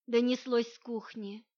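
plain reading voice

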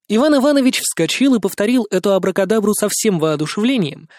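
ordinary delivery

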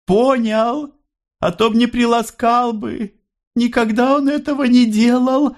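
high and tender, remembering her son; mother's voice. A narrator's reading. Mother tells Andrey. (мать грустно, очень высоким голосом)

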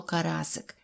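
ordinary delivery

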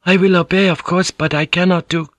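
high, anxious feminine voice; high-pitched deferential objection; pleading protest. Acted. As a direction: protest humbly until cut off. Woman pleading with her lord.

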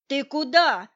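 резко выкрикнуть вопрос, выше и громче; окликнуть вслед убегающему; громкий возглас. A narrator's reading. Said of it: "воскликнул Головка". (громкий удивлённый окрик)

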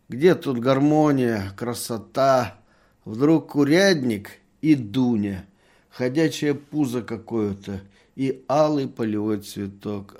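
put-on a drunk berating himself to the merchant; drunken lament. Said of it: "пьяным голосом". (пьяное самобичевание, медленно и громко)

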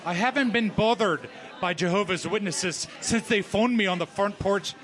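would-be Canadian, sounding Scottish; botched Canadian accent. Acted. Team member pinch-hitting in a Scottish-sounding Canadian accent. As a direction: try Canadian and slip toward Scottish. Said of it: "Wait, that's Scotty".

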